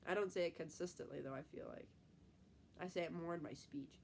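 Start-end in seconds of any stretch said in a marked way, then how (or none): 2.8-4.0 blocked nose from a cold; stuffy nose. Real, not acted. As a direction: talk through a stuffed-up nose. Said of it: "I sound like I have a stuffy accent".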